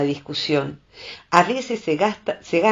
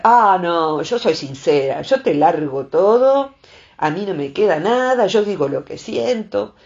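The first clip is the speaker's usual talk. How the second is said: louder, hammed-up proud self-justification; mock a blunt person bragging about being frank; mocking boastful tone; 4 dB louder than usual. Imitating people who brag about their bluntness, mocking. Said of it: "la gente dice".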